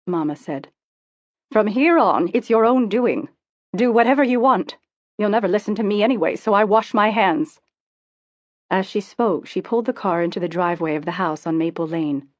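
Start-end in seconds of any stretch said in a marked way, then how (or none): 1.5-7.6 mother's cold, raised dismissal; bitter mother. Acted. Mother dropping daughter at home, fed up and cold. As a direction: hands it all back to her, louder and curt.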